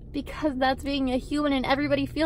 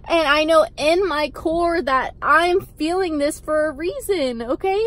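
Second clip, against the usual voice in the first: getting emotional; 3 semitones higher, 3 dB louder than usual. Real, not acted. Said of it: "I'm sorry if I'm getting emotional".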